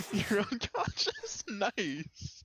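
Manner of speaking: high, loud delighted squeal; gleeful. Real, not acted. Teammate knocked out gleefully.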